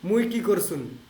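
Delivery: মুই কি করছুন said in Rangpur Bangla; Rangpur dialect. Shown as a demonstration. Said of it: "আমরা রংপুরে বলি যে". (রংপুরের আঞ্চলিক উচ্চারণে)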